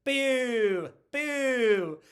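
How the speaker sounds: high, loud, hammed-up crone jeering at the queen; booing old lady. Old lady in the crowd booing Buttercup, high, loud mock jeer. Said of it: "the old lady goes".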